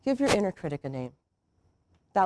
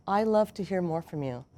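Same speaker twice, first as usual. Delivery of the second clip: softer, warm invitation; encouraging; 2 semitones lower, 5 dB quieter than usual. Shown as a demonstration. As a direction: invite them in gently. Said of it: "sound and feel different".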